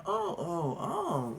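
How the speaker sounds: hammed-up tearful oh oh oh; mock crying. Mom pretending to care at school, mock sob. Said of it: "she really acting like".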